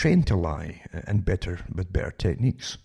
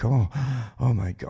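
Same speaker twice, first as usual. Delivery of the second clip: sarcastic gasp, pitched up; hammed-up breathless shock; mock gasp of shock; 5 semitones higher than usual. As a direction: fake being stunned by the headline. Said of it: "I'm breathless just reading it there".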